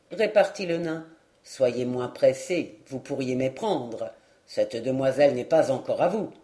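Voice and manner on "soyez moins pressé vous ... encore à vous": the dwarf warning. Acted. Dwarf warns the knight.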